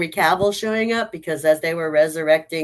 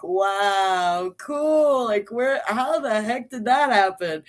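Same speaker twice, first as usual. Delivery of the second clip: excited wow; 6 semitones higher, slower than usual. Retold or imitated. Thrilled by a surprise cameo.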